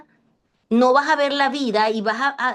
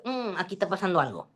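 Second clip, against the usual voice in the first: suspicious mother; 5 semitones lower, 8 dB quieter than usual. Retold or imitated. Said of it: "Y yo".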